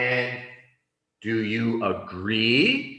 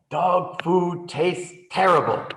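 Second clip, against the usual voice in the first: higher, emphatic mock complaint; mild disgust; 6 semitones higher, 4 dB louder than usual. Shaggy grumbles about dog food, mildly disgusted. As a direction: complain about the taste, lightly acted.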